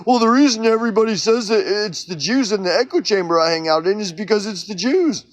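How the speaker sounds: lightly voiced smug believer, circular logic; mock echo-chamber believer. Mimicking someone from the echo chamber, smug mockery. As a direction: say it like it settles everything.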